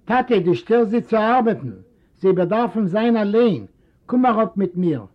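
a hint of a patient son; coaxing son. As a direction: gently urge the old father upstairs. Son coaxes his old father.

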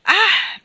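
high, loud exclamation; a sudden high-pitched "ah!". A narrator's reading. Signor Sotto cutting in from the floor, loud exclamation.

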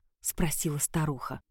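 ordinary delivery, nothing marked

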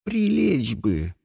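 slow pained groan; injured narrator moaning a wish to lie down; moaned. Acted. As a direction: groan it weakly. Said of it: "простонал я".

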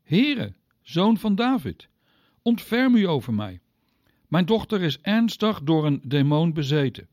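mother begging Jesus to save her daughter, crying out. Acted. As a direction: call out to him for mercy, voice lifted. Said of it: "riep naar hem".

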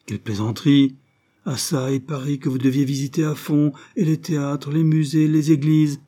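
protesting host. Acted. Painter protests her leaving.

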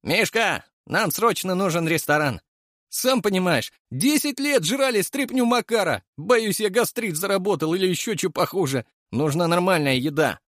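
a hungry braggart demanding food; Leshy's brash voice. A narrator's reading. Leshy demands a restaurant from Mishka, high and brash.

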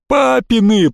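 high, drawn-out wail; despairing bawl. A narrator's reading. Boy admitting whose watch broke, despairing wail. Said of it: "проревел он с отчаянием".

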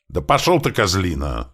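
high, loud opening burst that drops; defiant acted snap; snapping back. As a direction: snarl back at a captor. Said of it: "огрызнулся грач".

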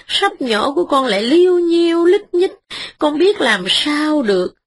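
a hint of a tearful begging peasant; humble pleading. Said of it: "đánh bạo nói rằng".

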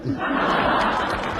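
low-volume, hammed-up weeping; stagey sobbing. Woman weeping at her suitor after refusing him, stagey sobs. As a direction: sob softly in short comic bursts. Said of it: "哭啥呢？".

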